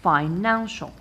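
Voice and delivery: Financial stressed on the middle syllable, "nan"; stress on second-last syllable. Shown as a demonstration. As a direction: put the weight on "nan" in Financial. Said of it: "I stress the second syllable".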